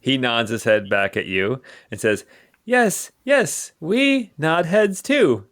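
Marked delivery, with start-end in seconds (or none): 2.7-5.5 high goblin voice, drawn out; agreeable gobloid. Acted. Gobloid nodding back at its captor, agreeable.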